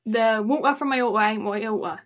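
quick English accent with dropped T's. Shown as a demonstration. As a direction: rattle it off in colloquial English accent. Demonstrates dropped T's in rhyme.

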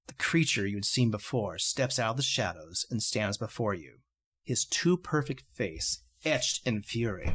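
low, measured storyteller narration; hushed-toned dramatic narration, pitched low; game master's scene setting. A narrator's reading. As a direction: set an ominous scene, deliberately paced.

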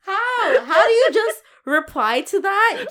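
loud, high, laughing incredulity; laughing disbelief. Real, not acted. Reacting to the chef's absurd insult, laughing in disbelief. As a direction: barely get the question out through real laughter.

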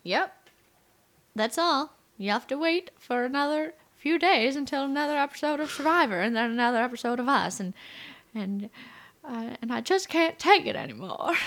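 put-on old Hollywood transatlantic accent. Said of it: "thanks for listening to her Pan-American Transatlantic accent".

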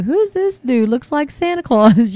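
high, bemused double take; slowing on the Santa Claus bit; puzzled surprise. Retold or imitated. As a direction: react like a stranger just popped up on screen. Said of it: "I'm like".

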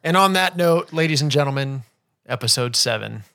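loud, showy host announcement; grand announcer intro. Acted. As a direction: announce it like a game show host. Opening the episode like host.

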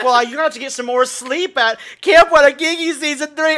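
high caller voice. Retold or imitated. Imitating the caller, high and loud.

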